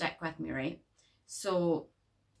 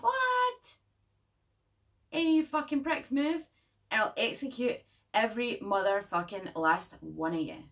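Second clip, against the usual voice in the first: sudden high shouted threat, holding a room at gunpoint; Honey Bunny robbery yell; 5 semitones higher, 4 dB louder than usual. Retold or imitated. Vlogger imitating the Pulp Fiction robbery line, loud and high. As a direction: bark it out like a stick-up. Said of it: "That's what she says in that movie".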